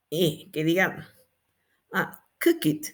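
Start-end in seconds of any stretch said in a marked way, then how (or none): 2.4-2.9 COOKED misread as two syllables, "cook-it"; wrong -ed ending. Shown as a demonstration. Teacher showing an unintelligible past, wrong -ed ending. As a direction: add a full "it" after COOK. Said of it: "No, porque no lo van a entender".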